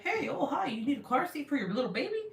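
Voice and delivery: bright, high, fast mock cheer; mock cheerful driver. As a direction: fake friendly service voice. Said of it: "they're not gonna be like".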